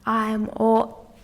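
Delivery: slow, menacing whisper; slow creepy whisper imitating a villain; creepy villain quote. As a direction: whisper it slowly like a sinister stalker. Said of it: "Him going".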